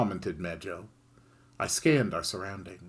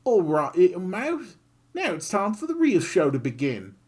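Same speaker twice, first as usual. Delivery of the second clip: louder, relishing threat; menacing Kid; 8 semitones higher, 5 dB louder than usual. Acted. Kid squaring up to the griffin, gleeful threat. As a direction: promise a beating with glee.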